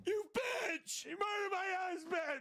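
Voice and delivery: high, shrieking accusation; hammed-up hysterical widow shriek; screaming clown wife. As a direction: scream it at the killer.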